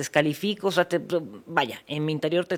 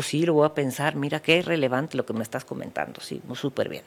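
smiling condescension; 2 semitones lower than usual. Acted. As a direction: humor them with a smile, then fade. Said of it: "te lo digo con una sonrisa".

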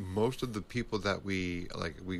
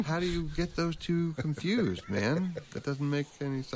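incredulous; 8 semitones higher than usual. Real, not acted. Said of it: "incredulous rant".

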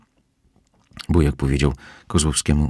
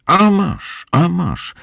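very high, louder cries with each blow; angry scolding; 14 semitones higher, 4 dB louder, much slower than usual. Acted. Housekeeper beating Kozłowski with her apron, very high and loud. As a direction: swat him and scold in a high voice. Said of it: "powtarzała".

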